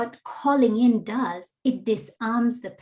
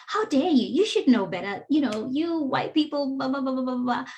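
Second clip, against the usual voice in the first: higher, scolding rant trailing off; indignant call-out; 4 semitones higher than usual. Shown as a demonstration. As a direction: pile on the blame, then wave it away. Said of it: "I've come on you like a ton of bricks".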